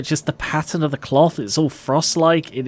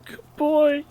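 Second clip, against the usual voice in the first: echoed whisper. Retold or imitated. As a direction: whisper it back, lighter. Streamer echoes tombstone.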